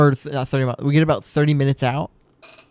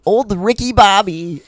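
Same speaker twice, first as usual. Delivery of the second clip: radio announcer; 4 dB louder than usual. Pretend. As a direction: introduce the act like old radio. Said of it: "nineteen fifties radio announcer".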